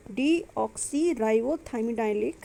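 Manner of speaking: very slow, syllable by syllable; spelling out a term. Shown as a demonstration. Teacher sounding out a long chemical name for students, very slow. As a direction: stretch the long name out for the class.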